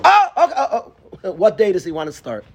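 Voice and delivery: mock rosh yeshiva suddenly eager; sudden eager welcome. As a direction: flip from cold to eager. Sudden change on hearing orphan.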